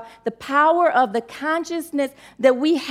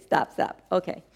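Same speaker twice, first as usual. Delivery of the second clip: whisper to herself; 6 semitones lower, 7 dB quieter than usual. Real, not acted. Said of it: "y'all keep making me cry".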